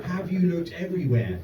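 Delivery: mock-sweet sarcastic mum. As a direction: sneer the question as useless help. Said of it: "encouraging sarcasm".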